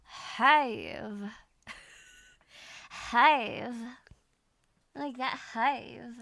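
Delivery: "Hive" drawn out for have, gliding vowel; Southern vowel in have. Shown as a demonstration. Student copying the coach, Southern drawled "Hive". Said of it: "It's gonna change and be hive".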